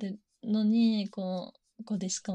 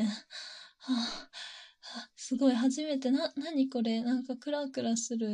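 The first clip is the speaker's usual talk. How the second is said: dizzy heroine; 4 semitones higher than usual. Acted. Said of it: "ってなって".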